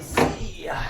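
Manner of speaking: high, cheeky goodbye; squeaky send-off to the part; high see ya. Pretend. Bidding farewell to part.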